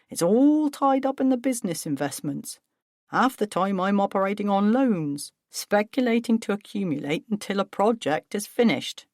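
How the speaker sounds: lightly voiced resentful father; Paul, aggrieved. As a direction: vent about wife and son. Paul complains about family.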